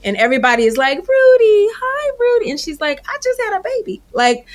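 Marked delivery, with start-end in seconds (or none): 1.0-2.5 high, loud excited greeting; excited fans. Retold or imitated. Fans greeting grown Rudy. 3.1-4.0 weary Rudy. Retold or imitated. Rudy's tired reply.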